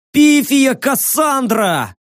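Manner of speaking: slow, high pleading cry; desperate shout. Acted. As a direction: call out her name in panic. Young man cries out desperately.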